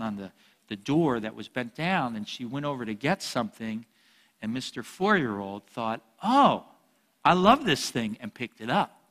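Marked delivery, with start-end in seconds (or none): 6.2-8.2 put-on high, loud little-kid delight; imitating his younger self; gleeful kid. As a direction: squeal like a thrilled four-year-old. Four-year-old's gleeful thought.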